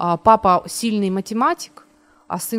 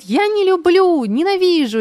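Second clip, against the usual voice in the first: put-on whiny child; 9 semitones higher, 5 dB louder than usual. Child whining in shop.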